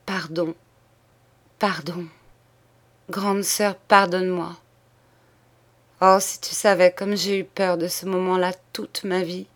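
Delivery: words pushed out one by one, exhausted; a hint of rasping, spent voice; hoarse halting words. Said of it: "rauques, scandés, comme exténués". (mots rauques et scandés, épuisés)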